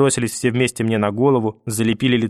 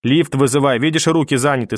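grandmother's voice; 3 semitones higher than usual. Acted. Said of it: "бабушкиным голосом".

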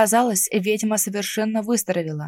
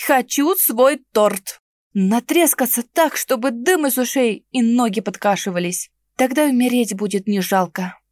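с вызовом; 3 semitones higher than usual. Acted. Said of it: "с вызовом произнесла".

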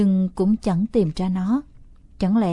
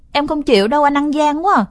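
put-on higher, louder childish wail of protest; whiny protest; 6 semitones higher, 7 dB louder than usual. Little sister protests being cheated, whiny tantrum. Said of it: "Nó dãy nảy".

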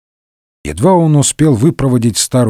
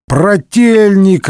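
joyful call; 6 semitones higher, much slower than usual. A narrator's reading. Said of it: "раздалось с кресла".

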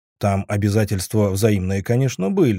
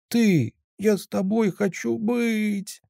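high, slow, tearful plea; sobbing; 11 semitones higher, 3 dB quieter, slower than usual. A narrator's reading. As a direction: Sveta sobbing to Zhora that she wants him, high and slow. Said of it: "рыдая, выдала Света".

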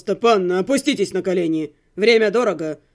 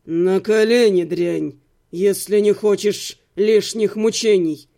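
low, menacing male command; angry villain; 6 semitones lower, slower than usual. A narrator's reading. Vengeful brother ordering heroine to kneel, angry menace. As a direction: order it with deep, contained anger. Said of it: "искривилось от злости".

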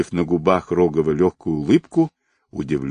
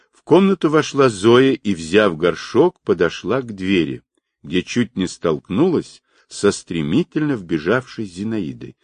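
plain reading voice

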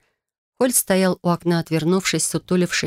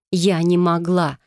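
indignant cry; slower than usual. Acted. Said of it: "возмущённо вскрикнула я".

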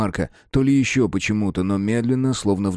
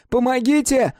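high, even louder cry; louder shout for help; 3 dB louder than usual. A narrator's reading. Mark crying again for help, higher and louder. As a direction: push the second cry further. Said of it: "Крики Марка".

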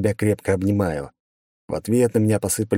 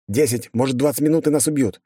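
higher, pressing command; urgent order; 6 semitones higher than usual. A narrator's reading. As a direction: rush them with orders. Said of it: "приказал я".

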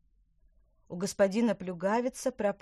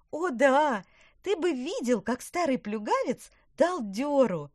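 put-on high loud gleeful girl; 8 semitones higher, 8 dB louder than usual. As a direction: crow about it with glee. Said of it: "усмехнулась Лина".

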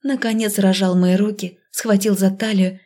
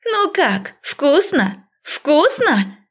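yelling; 7 semitones higher, much slower than usual. A narrator's reading. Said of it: "орала я".

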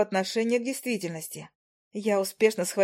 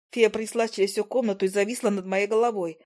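ordinary delivery

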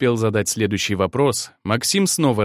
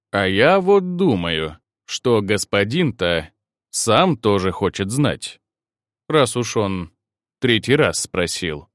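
slow, lower sly drawl; sly teasing; 3 semitones lower, slower than usual. Acted. Максим лукаво и медленно дразнит девушек. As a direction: drag it out teasingly. Maksim slyly drawing it out.

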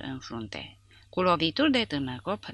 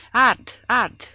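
high, loud cry of agony; panicked, high-pitched yell; screamed alarm; 8 semitones higher, 11 dB louder than usual. A narrator's reading. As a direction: scream it out, twice. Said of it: "și țipă".

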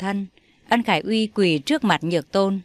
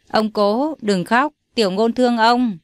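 put-on great-grandson gently comforting the crying old man, childlike; little boy; 2 semitones higher than usual.

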